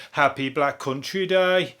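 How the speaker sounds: Black Country greeting, stretched out slowly; Black Country accent. Shown as a demonstration. Showing listeners what to say next year, in a Black Country accent. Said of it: "how you say it if you're from the Black Country".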